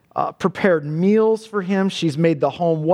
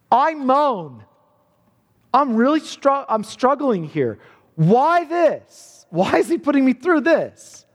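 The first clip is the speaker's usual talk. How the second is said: raised, pleading lament of a troubled soul; anguished psalmist; 5 semitones higher than usual. Acted. Preacher voicing the psalmist's anguish to his congregation, raised and pleading. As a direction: cry it out like a man in agony. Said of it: "listen to this".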